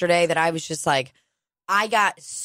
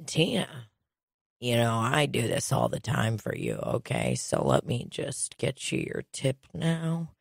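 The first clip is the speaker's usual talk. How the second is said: imitating Donald; 6 semitones lower, 6 dB quieter than usual. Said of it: "And then he says".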